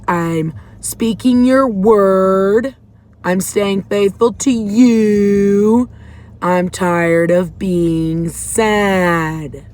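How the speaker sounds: demanding, each word pressed; retold scream at God. To God while hitting the steering wheel, slow loud plea. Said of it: "as I'm screaming like a freaking lunatic".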